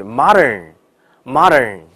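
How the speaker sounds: modern with a quick spring-back on dern; modern, mouth opens then quickly retracts; springy modern. Shown as a demonstration. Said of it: "它有个弹簧的感觉".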